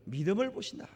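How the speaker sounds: ordinary talk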